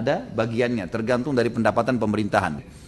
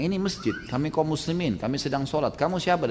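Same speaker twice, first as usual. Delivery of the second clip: hushed voice; 2 semitones higher, 6 dB quieter than usual. Acted. Worshipper speaking inside the mosque.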